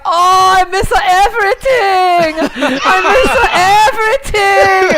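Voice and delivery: high, slow, laughing wail; hammed-up "I miss everything" lament; whiny Jackie impression. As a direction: whine it like a tired player giving up. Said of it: "And Jackie's like".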